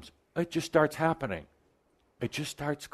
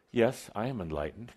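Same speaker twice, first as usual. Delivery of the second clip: casually tossed off, softer; breezy, offhand claim; nonchalant; 4 dB quieter than usual. Shown as a demonstration. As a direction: say it like it's nothing special. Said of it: "say it in that kind of voice ... nonchalant".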